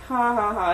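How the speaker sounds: spaced-out, fake "ha ha ha"; mock laugh. Jack laughing at upset Daisy, mock laugh. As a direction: laugh it out deliberately, one ha at a time.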